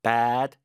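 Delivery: bad lang uitgerekt; long bad. Shown as a demonstration. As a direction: rek de klinker van bad flink op. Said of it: "길게 bad weather".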